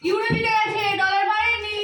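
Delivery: loud, high winner announcement; triumphant call of the result; excited announcing. Real, not acted. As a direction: declare the winner with glee. Announcing the dog race winner.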